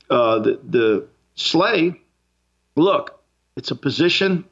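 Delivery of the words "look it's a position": talking through a coming sneeze; words strained by a held sneeze; holding back a sneeze. Real, not acted. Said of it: "Excuse me, I'm gonna sneeze".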